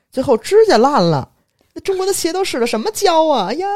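high, loud mock indignation; mock outrage. Mocking the boss's tale about cheap shoes, loud and high. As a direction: exaggerate the outrage over the shoes.

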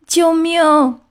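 high, feeble plea for help; weak moan. A narrator's reading. Stranded fish gasping for help, weakly moaning. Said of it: "他无力地呻吟着".

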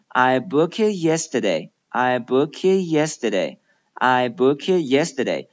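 "book it" run together, t held back; "I book it yesterday" with k joined to "it", final t unreleased; linked, silent t. Shown as a demonstration. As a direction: link "book it" into one word and don't release the t. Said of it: "最后一个字母T不发出这个音".

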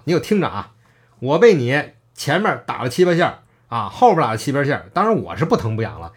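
arrogant boast. Retold or imitated. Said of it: "特别狂的样子".

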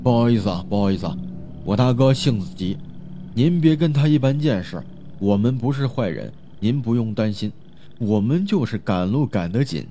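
courteous pleading through a closed door; smooth things over deferentially; polite, apologetic. Acted. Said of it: "客客气气".

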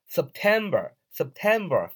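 September with a light sep and a heavy tem; stress on tem. Shown as a demonstration. Teacher showing learners where the stress falls, stress on tem. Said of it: "后边timber读的是非常重的".

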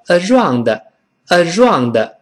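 around with a w-like sound instead of r; wrong pronunciation. Shown as a demonstration. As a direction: mimic the common mistake in around. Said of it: "不对哦".

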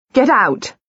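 frightened second cry; panicked repeat. A narrator's reading. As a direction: drive them out again, desperate. Panicked shouting at visitors.

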